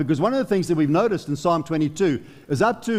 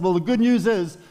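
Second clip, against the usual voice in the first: voicing the Father; 2 semitones higher than usual. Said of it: "the Father said".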